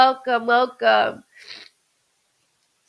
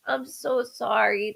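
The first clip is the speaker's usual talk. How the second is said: choked up. Real, not acted. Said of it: "that choked me up".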